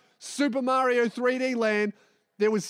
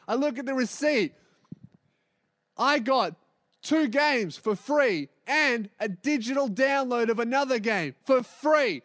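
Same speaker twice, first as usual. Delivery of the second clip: ordinary delivery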